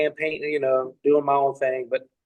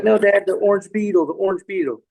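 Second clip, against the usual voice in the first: higher, louder start, lightly voiced child; imitated insistent niece; 5 semitones higher, 3 dB louder than usual. Niece pleading with her dad, mock insistence. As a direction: imitate a little girl who won't let it go.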